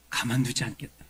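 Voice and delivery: acted threat, voice dropped after the outburst; restrained menace of a king; King Saul's threat.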